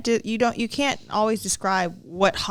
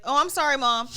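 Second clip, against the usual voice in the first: higher-pitched imitated child; apologetic little boy; 6 semitones higher than usual. Son confessing to mom unasked, lightly voiced apologetic little boy. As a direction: mimic a kid owning up early.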